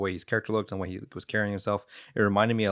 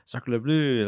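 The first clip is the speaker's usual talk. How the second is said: mock French; 3 semitones higher than usual. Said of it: "had a French accent".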